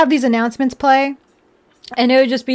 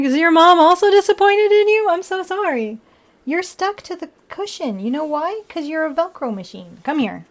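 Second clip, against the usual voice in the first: put-on high baby talk; 5 semitones higher than usual.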